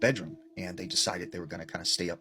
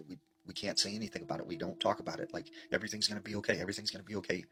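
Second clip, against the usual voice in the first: quick, softer retold reassurance; hushed reassurance; 5 dB quieter, faster than usual. Father reassures son about the knocking, lightly acted, hushed and hurried. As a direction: hurry through it in a lowered volume.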